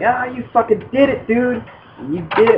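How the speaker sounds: high, excited mock cheer; excited congratulation. Coach lifting the winner, cheering excitedly. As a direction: cheer him on like he won. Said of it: "and he's like".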